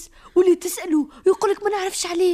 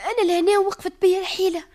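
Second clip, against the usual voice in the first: tearful. Acted. Maid overwhelmed, at a loss.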